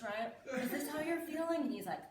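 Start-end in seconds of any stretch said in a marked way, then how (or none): 0.6-1.6 put-on sad, higher-pitched question; mock sad. Parent acting sad for son, mock-mournful. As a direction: ask it through a sad pout. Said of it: "I make a sad face".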